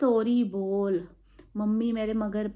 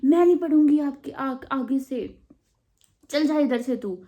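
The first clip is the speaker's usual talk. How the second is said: defiant retort; 4 semitones higher, 4 dB louder than usual. Retold or imitated. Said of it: "मैंने literally ऐसा बोला".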